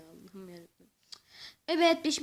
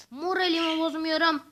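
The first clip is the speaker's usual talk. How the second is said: louder, declared firmly; loud insisting; 6 dB louder than usual. Real, not acted. Gamer loudly insists he keeps his spirits up. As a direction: proclaim you are not upset. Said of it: "Sinirlerimi bozmuyorum".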